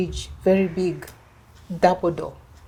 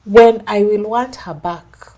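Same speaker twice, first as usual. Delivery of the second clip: smug husband; 11 dB louder, slower than usual. Retold or imitated. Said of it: "this is what he told the bishop".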